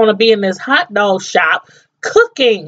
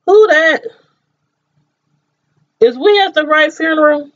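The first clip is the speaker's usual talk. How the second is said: higher-pitched, puzzled mourner; mock bewilderment; 4 semitones higher than usual. Mourner at the casket not knowing the body, mock bewilderment. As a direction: question it in hammed-up disbelief.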